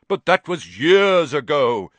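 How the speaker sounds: put-on fretting, in a strange old voice; fretful old spider. A narrator's reading. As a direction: worry it out like an ancient spider. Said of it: "said Aragog fretfully".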